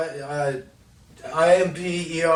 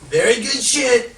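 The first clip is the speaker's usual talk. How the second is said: emphatic; 9 semitones higher, 6 dB louder than usual. Real, not acted. Emphatic joking.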